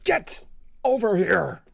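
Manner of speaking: slow, stretched loud shout; anime Scorpion shout. Retold or imitated. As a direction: drag the battle cry out. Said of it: "the one from the anime series".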